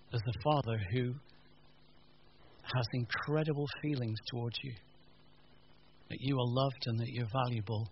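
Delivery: quiet, sincere comfort; tender reassurance. Real, not acted. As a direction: reassure them gently, leaving space after each phrase.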